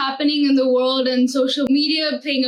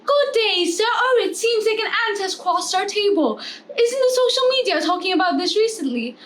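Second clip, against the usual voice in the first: mock Australian accent; 4 semitones higher than usual. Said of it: "That's Australian".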